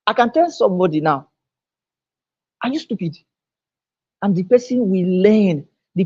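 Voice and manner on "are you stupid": soft, mild question; gentle correction. Shown as a demonstration. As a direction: ask it quietly, without giving offence. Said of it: "say that same statement in another way".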